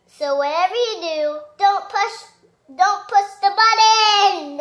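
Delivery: laughing warning. Acted. Ending read with laughter.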